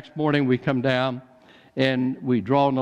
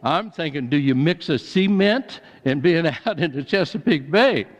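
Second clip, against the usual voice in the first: laughing. Real, not acted. Joking about his mafia fears.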